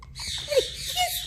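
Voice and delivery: sing-song voice way up high; high coaxing. Real, not acted. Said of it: "You gotta give it a kiss".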